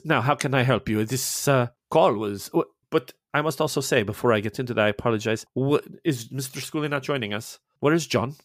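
lightly voiced Italian priest, courteous and mild; a hint of a kindly Italian father greeting a guest. The priest greeting Faye, lightly Italian and courteous.

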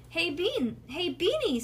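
high, chirpy greeting; bouncy big sister. A narrator's reading. Nancy greets her little sister, high and bouncy. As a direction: bounce in with false cheer. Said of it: "bouncing into the living room".

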